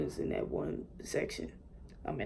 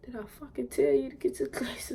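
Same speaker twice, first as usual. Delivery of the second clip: hissed mom threat; 7 semitones higher than usual. Retold or imitated. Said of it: "I'm just like".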